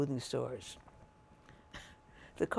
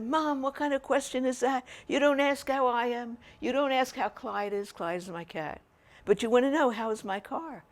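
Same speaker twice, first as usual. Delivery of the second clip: indignant retort; 5 semitones higher, 4 dB louder than usual. Retold or imitated. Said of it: "I said".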